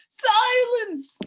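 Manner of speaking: high, loud bark; thundering command. Acted. Policeman silencing the humbug, thundering. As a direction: slam it down. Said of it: "thundered the policeman".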